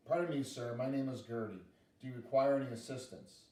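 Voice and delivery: lightly voiced, politely formal girl; polite little girl. Girl introducing herself to the owl, primly polite. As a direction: offer help with prim courtesy.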